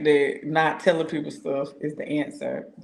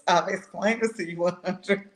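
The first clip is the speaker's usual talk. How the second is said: exasperated, laughing; 2 semitones higher than usual. Retold or imitated. Mock lecture to William, laughing.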